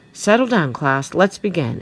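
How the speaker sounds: loud, high teacher's call. A narrator's reading. Teacher bringing her homeroom to order, calling out. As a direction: project firmly over a noisy class. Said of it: "Missus Ambler calls".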